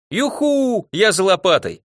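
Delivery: high-pitched whoop of delight; whoop, then dash off eagerly; gleeful whoop. A narrator's reading. Dimka outside running for a shovel, gleeful whoop.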